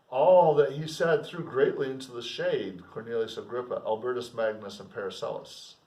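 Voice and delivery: measured literary reading; steady classroom reading of a novel; novel read aloud. Acted.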